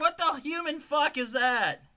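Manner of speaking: high, slow cartoon disbelief; high silly voice. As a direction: drag out the outrage in a squeaky voice. Continuing cartoon voice.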